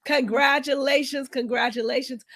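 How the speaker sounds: hoarse, worn-out throat; raspy voice. Real, not acted. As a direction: croak it out through raspiness. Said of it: "even through my raspy voice".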